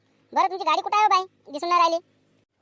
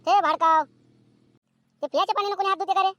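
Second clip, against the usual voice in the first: scolding; 2 semitones higher, slower than usual. Acted. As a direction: scold the son for washing hands in drinking water. (रागाने ओरडून दिलेला ठपका)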